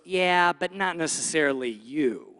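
low doubting voice in the head; doubting inner voice. Acted. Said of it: "this little voice goes".

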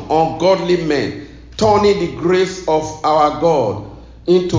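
measured reading in deliberate phrases; scripture reading. Real, not acted. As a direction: proclaim the verse to a congregation. Reads scripture to congregation.

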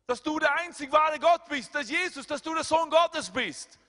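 high, loud impassioned preaching; preaching at full force. Acted. Preacher to congregation, voicing Moses' doubt, high and loud. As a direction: cry it out to the congregation.

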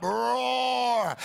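short shouted roar; mock battle roar. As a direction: roar like a lion ready to fight. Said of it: "a lion lets you know".

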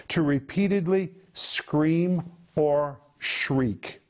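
"to repeatedly scream or shriek" slowly, every word weighed; slow emphasis. Shown as a demonstration. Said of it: "The word anakradzo means".

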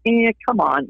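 put-on teenage reluctance; embarrassed teenager. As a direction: imitate a mildly embarrassed teenager. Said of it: "I'd be a little embarrassed".

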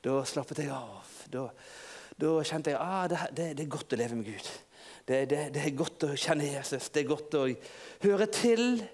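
soft, low sigh of relief; gentle hushed relief; Peter relieved. Pretend. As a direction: let the fear melt away quietly. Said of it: "Peter, hva følte du da?".

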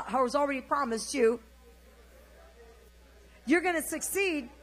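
loud, high call for repeating; proclaimed blessing. Shown as a demonstration. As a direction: declare it over the congregation phrase by phrase. Feeds blessings for congregation to repeat.

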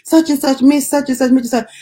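high, repeated name-calling; pestering patient. Retold or imitated. Patient keeps calling the worker's name, pestering. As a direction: imitate someone insistently calling for attention. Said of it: "kept calling her name".

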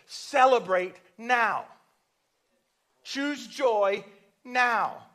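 loud, slow, high exhortation; urgent call. Real, not acted. Preacher urging the church to rejoice, loud slow exhortation. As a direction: drive the command home. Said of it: "preacher urges the congregation".

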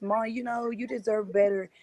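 a son begging his mother to leave; son pleading. Retold or imitated. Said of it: "And he was always".

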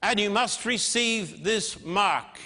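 high, slow, dragging decree; commanding beast. Retold or imitated. The dragon power commands all to take its mark, slow and high. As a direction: drag out the order like a tyrant. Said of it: "And it will say".

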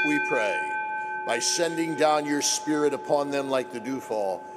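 solemn liturgical prayer voice. Acted.

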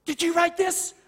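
high-pitched questioning as mom; mother's questioning. Retold or imitated. Mother questions son over scribbles.

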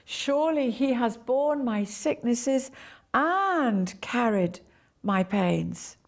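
and drawn out slowly; stress on and. Shown as a demonstration. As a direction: stretch the word and. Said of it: "emphasize one word at a time".

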